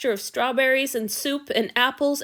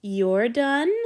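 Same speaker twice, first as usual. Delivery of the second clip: pleasant. Acted. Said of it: "the bigger man asked pleasantly".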